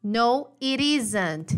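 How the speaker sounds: "it isn't" said quickly with the T as a tapped R; quick casual "no, it isn't"; fast connected speech. Shown as a demonstration. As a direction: flap the T in "it isn't", run it together. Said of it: "Falando rapidinho".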